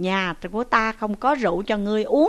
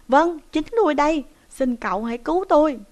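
eager plea; 6 semitones higher, 4 dB louder, faster than usual. Acted. Captive eagerly plays along.

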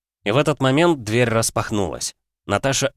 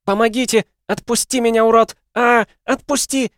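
истошный высокий крик; бьётся в руках и орёт; голосит во всё горло; 5 dB louder than usual. A narrator's reading. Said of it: "голосила во всё горло". (крик во всё горло)

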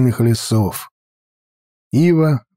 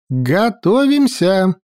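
cheerful call; 6 semitones higher, slower than usual. Acted. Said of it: "разнёсся весёлый голос".

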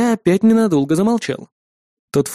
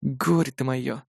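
slow, much softer resigned sigh; 3 semitones lower, 8 dB quieter, slower than usual. Acted. Brother sighing fondly at his clumsy sister, resigned. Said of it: "вздохнул я".

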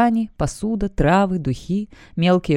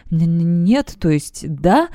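frightened stammer; slower than usual. Acted. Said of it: "Воришка сжался, боясь сказать".

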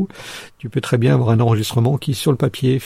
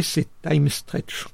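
time stretch said very slowly, word by word; slow stressed keyword; 5 semitones higher, 7 dB quieter, much slower than usual. Shown as a demonstration. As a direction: spell out time stretch slowly for note-taking. Dictating a keyword to note.

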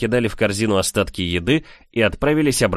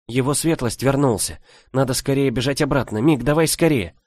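urgent; 6 semitones higher than usual. A narrator's reading. Urging him to hurry back.

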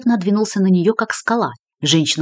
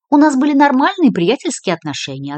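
sharp, higher and clipped off; curt retort; 7 semitones higher, 4 dB louder than usual. A narrator's reading. Lola snapping back at the investigator, curtly. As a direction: cut him short, end of discussion. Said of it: "отрезала она".

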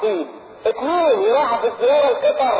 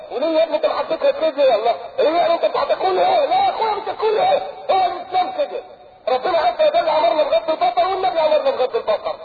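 imitated reply; 4 semitones higher than usual. Host voiced answering a guest.

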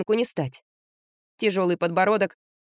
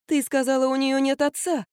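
higher, persuading tone; coaxing; 6 semitones higher than usual. Acted. Mother coaxing her daughter, higher persuading voice. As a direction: talk her round gently. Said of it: "принялась увещевать дочь".

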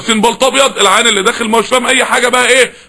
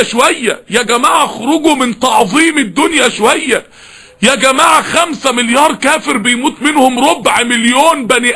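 impassioned preaching. Acted. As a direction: pour out the plea, near tears. Preacher pleads loudly. (وعظ حماسي متوسل بصوت باكٍ)

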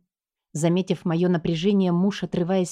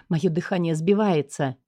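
ordinary delivery, nothing marked

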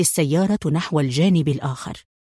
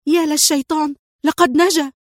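angry shout; 9 semitones higher than usual. A narrator's reading. Sonia seeing Adham survive, a high furious shout. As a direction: spit it out in rage. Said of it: "وصاحت هي في غضب".

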